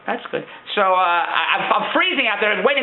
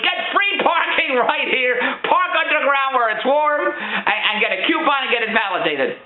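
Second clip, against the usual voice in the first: ad read; 4 semitones higher, slower than usual. Pretend. Reading the sign.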